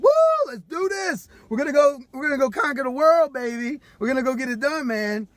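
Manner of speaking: high, loud pumped-up cheer; whooping, high and loud, pumped to go; hyped-up excitement. Retold or imitated. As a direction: mimic the crowd all fired up. Acting out hyped-up group excitement.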